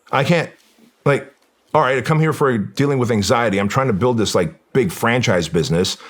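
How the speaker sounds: mock-exasperated protest, pitched high; retold overwhelmed protest. Client protesting inwardly to his therapist, overwhelmed.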